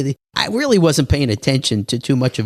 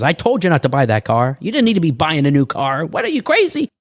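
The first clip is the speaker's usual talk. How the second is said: mock angry father; 5 semitones higher than usual. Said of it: "my father was all mad at me".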